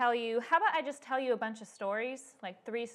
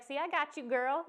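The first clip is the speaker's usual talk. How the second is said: playful, slightly raised voice; sassy reassurance; 4 semitones higher than usual. Retold or imitated. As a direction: reassure like a sassy best friend. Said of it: "That's exactly how he said it".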